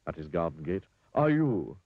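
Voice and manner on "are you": horrified splutter, high and loud; raised, aghast storybook voice. A narrator's reading. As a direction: splutter it out in horror. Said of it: "spluttered Mister Fussy".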